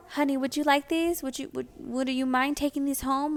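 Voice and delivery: a hint of a sweet older saleslady offering gifts; sweet vendor lady. Vendor lady offering leftover leggings, light sweet imitation.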